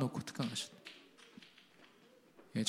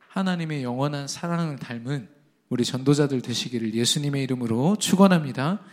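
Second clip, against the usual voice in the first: normal talking voice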